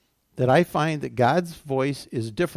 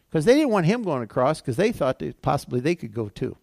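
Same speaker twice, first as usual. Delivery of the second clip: normal talking voice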